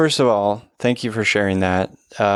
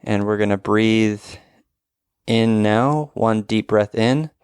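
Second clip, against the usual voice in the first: guided breathing. Acted. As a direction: lead the breaths gently. Leads a breathing exercise.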